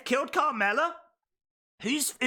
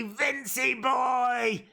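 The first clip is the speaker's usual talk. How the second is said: drawn-out cooing praise; much slower than usual. Pretend. Streamer cooing at Vince like a toddler, drawn out. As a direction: stretch out Vincey boy, half-crying.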